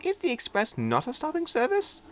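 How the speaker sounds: put-on a young engine shyly making friends; little diesel meeting Duck, high and eager; friendly little diesel. A narrator's reading. Philip high.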